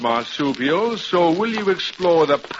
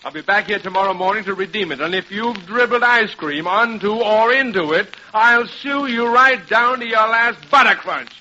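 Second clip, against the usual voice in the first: higher-pitched, huffy warning; indignant threat; 5 semitones higher than usual. Acted. Indignant threat to sue over watch.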